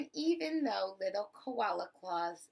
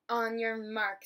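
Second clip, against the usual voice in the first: race starter; 4 dB louder than usual. Acted. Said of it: "said the kookaburra".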